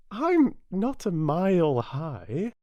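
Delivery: slow, high indignant Alice; Alice objecting to the king's rule; Alice protesting. Acted.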